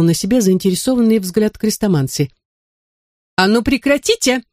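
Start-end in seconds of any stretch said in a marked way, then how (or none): 3.4-4.4 high mock yell; shouting. A narrator's reading. Angry woman yelling at the sorcerer to stop. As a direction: demand it stop, raising the voice. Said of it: "закричала она".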